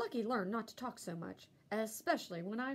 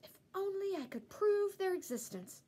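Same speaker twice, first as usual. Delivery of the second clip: muttered; 9 semitones higher than usual. A narrator's reading. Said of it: "he muttered".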